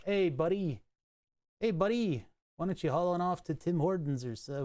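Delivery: light, put-on Canadian lilt; mock Canadian accent. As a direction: casually imitate a Canadian telling someone off. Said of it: "making it Canadian".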